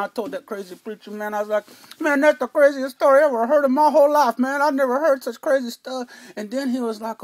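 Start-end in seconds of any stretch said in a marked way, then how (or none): 2.0-6.1 louder, higher disbelief; a louder, higher mock-astonished retort; incredulous. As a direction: scoff at the preacher in loud disbelief. Telling the preacher it's crazy.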